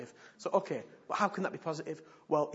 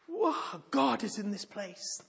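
high-pitched whoa, then slow and louder; awed gasp; 7 semitones higher, 5 dB louder, much slower than usual. Retold or imitated. Preacher mimics a newcomer awestruck in church, high slow wonder. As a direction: let it land as sudden wonder. Stranger stunned by prophecy.

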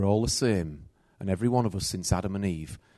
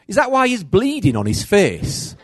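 high, loud, laughing retort; laughing disbelief; 10 semitones higher, 8 dB louder than usual. Retold or imitated. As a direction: ask it half laughing in mock outrage. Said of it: "And I'm like".

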